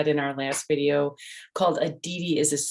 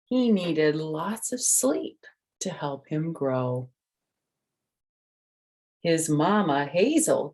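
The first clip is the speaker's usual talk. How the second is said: lively, raised storybook voice; reading to children. A narrator's reading. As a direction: tell it like a bedtime story for little ones. Reads the picture book aloud.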